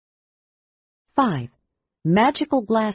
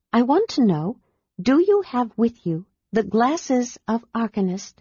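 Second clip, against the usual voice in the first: lightly raised, serious, careful asking; earnest Lilith; 5 semitones higher than usual. Acted. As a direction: weigh each word before the big question. Lilith asks her important question.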